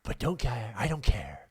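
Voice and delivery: lightly done Jack Nicholson voice, half-whispered in places; a loose, sly take on Jack Nicholson reading a fan letter; Jack Nicholson impression. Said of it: "Jack Nicholson".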